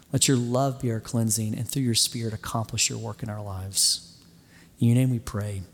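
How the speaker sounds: earnest, measured prayer voice; closing prayer. Real, not acted. Pastor prays for the congregation after his sermon, earnest and calm. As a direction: pray it humbly, steady and unhurried.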